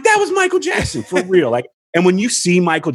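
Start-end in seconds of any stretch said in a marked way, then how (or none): 0.0-1.5 starstruck shout. Retold or imitated. Fan yelling after seeing a famous singer up close. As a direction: shout it like you can't believe it.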